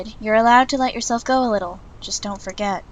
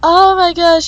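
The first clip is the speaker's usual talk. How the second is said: much louder, higher burst between laughs; laughing exclamation; 6 semitones higher, 11 dB louder, slower than usual. Real, not acted. The reader losing it at the scene, loud laughing exclamation. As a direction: gasp it out mid-laugh. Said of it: "I'm crying".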